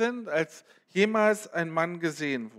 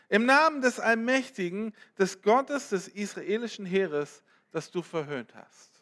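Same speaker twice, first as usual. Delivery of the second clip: bold defiant reply; 2 semitones higher than usual. Acted. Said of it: "David rief zurück".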